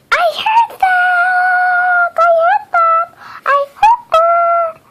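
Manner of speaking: high, loud indignant squeak; indignant shout. Acted. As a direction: yell it back, offended. Character overhears the whisper.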